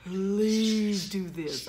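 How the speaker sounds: slow, deliberate teacher voice; slow, strained politeness; patient instruction. Retold or imitated. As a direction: spell it out very slowly. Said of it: "I did finally say".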